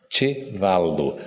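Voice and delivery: "Chevalo" very slowly, "ch" as in "tch", stress on "va"; slow Esperanto word. Shown as a demonstration. Teacher teaching the audience the word for horse, slowly. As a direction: draw out "Chevalo" syllable by syllable. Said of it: "Como é que se fala cavalo em Esperanto?".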